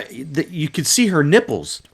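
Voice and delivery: ordinary delivery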